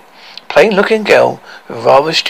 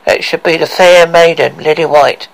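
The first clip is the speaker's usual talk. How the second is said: spooky voice; 4 dB louder than usual. Acted. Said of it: "ghostly face and a spooky voice".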